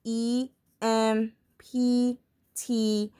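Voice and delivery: letters spelled out slowly; slow spelling. Shown as a demonstration. Teacher spelling slowly to students. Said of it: "What you do is".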